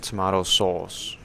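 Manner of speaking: slow, drawn-out British "tomato", with AH; British accent. Shown as a demonstration. Friends trading accent words, slow mock British.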